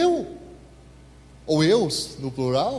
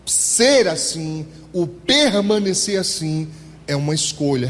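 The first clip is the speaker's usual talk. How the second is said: each word drawn out slowly, weight on ser and permanecer; slow emphatic phrase; 3 dB louder, slower than usual. Shown as a demonstration. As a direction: spell out "ser assim, o permanecer assim" slowly like a verdict. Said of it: "Repete isso pra mim".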